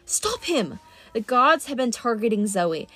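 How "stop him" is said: yell. Acted. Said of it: "The Manticore yelled".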